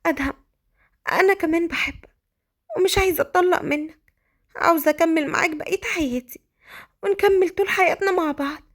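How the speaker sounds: high, emotional love confession; tearful-sounding, tender reply to her husband; Malika, loving. Acted. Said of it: "قالت مليكة بحب".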